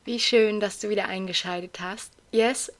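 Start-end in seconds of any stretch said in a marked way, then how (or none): 2.3-2.7 hoarse, strained voice after a wedding. Real, not acted. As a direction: speak with a worn-out, hoarse throat. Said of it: "Ich höre mich heute etwas heiser an".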